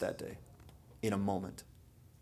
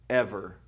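"ever" set apart and leaned on; stress on ever; 3 semitones lower than usual. Acted. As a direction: give "ever" its own beat with weight. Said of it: "and I'm going to stress".

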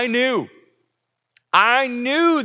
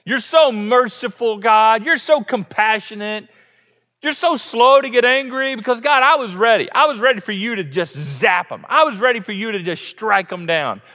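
sarcastic Jonah. Retold or imitated. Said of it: "condescending, a little sarcasm".

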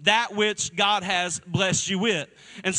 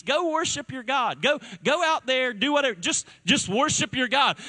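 higher, lightly voiced Pharaoh; a light, easygoing Pharaoh; mock Pharaoh; 4 semitones higher than usual. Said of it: "He said".

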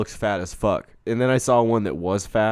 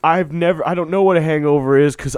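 put-on cheery drunk greeting; 3 semitones higher, 5 dB louder than usual. Drunk olden-times person voiced.

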